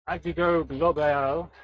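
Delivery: slow, hammed-up French accent on the name; poor French accent. Shown as a demonstration. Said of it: "My poor French accent there".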